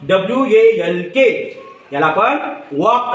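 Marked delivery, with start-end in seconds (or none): 2.8-3.1 वॉक with an open aw vowel; aw sound. Shown as a demonstration. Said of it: "असा उच्चार करतो". (वॉक मधला ऑ स्पष्ट उच्चारून)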